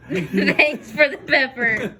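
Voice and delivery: laughing. Real, not acted. Laughing slow repeat of message.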